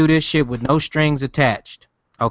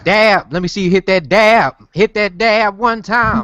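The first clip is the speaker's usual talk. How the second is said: excited; 5 semitones higher, slower than usual. Real, not acted. Hyping a dance.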